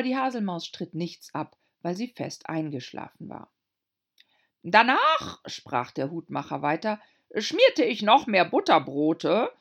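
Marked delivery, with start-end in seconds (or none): 4.6-5.4 high, slow nervous Hatter; timid little hatter. A narrator's reading. Hatter voiced. 7.4-9.5 high, slow nervous Hatter; timid little hatter. A narrator's reading. Hatter voiced.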